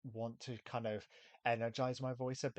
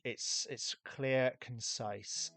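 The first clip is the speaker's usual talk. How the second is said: BBC accent; much slower than usual. Shown as a demonstration. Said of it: "and I'm doing it right now".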